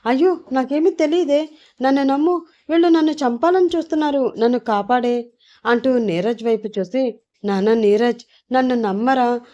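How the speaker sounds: high, hammed-up whiny pleading; fake crying. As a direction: put on a false tearful act to win the son over. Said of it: "ఏడుస్తున్నట్లు నటిస్తూ ఉంటాడు".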